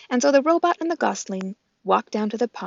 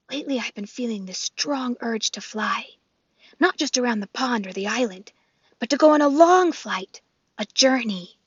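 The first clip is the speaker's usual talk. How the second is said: gosling voice; 3 semitones higher than usual. Acted. The gosling speaks.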